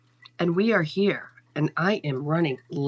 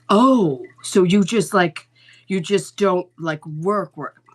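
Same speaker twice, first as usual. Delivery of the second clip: incredulous mock; 7 dB louder, slower than usual. Mocking the stranger's reply.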